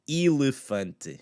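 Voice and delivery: elefante with every vowel clear, slowly; clean pronunciation. Shown as a demonstration. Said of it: "pronounce that nice and clean".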